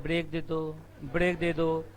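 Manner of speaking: mock student whine. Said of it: "कुछ कुछ देर में आवाज है".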